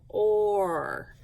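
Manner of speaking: "or." stretched out with a long O, falling; long O demo. Shown as a demonstration. Teacher letting pupils hear the vowel in the sound, stretched demo. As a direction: hold the long O inside "or.". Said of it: "I can kind of hear the long O sound".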